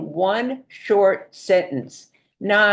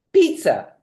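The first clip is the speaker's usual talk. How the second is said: belated answer; 10 semitones higher, 4 dB louder than usual. Retold or imitated. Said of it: "two minutes later go".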